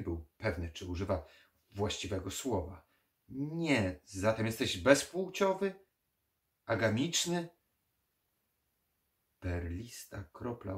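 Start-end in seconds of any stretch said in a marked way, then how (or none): 3.3-7.5 high, loud rising questions; incredulous, raised-pitch query; puzzled guessing. Acted. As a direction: grope for the word, voice climbing. Puzzled necromancer guesses again.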